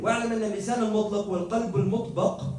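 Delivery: very fast reading of the Arabic passage; recited Arabic quote. Acted. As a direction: run through the text at speed. Reads Arabic text aloud.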